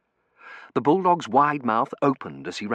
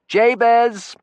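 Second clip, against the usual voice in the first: louder, higher call across the riverbank; 13 semitones higher, 9 dB louder than usual. A narrator's reading. Terence calling to the boatman on the bank, raised voice. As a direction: hail him from a distance. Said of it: "he called out to the man".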